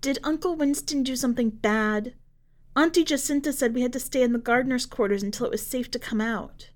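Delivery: put-on a worried kid blurting it all out; child voice. Oldest daughter questions her mother about Uncle Winston.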